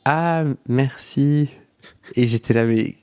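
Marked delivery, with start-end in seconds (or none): 0.1-1.5 slow, higher drawn-out thank you; a taken-aback thanks, slow and high; awkward thanks. Retold or imitated. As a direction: stretch the thanks out, caught off guard.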